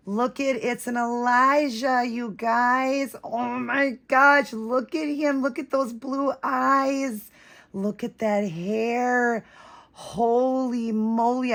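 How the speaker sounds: high, slow gushing over the doll; breathless delight at the first look; thrilled gasp. Real, not acted. First sight of the unboxed doll.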